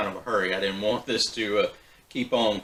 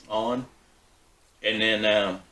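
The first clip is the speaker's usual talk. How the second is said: mouth full; slower than usual. Real, not acted. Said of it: "sorry, I've still got some in my mouth here".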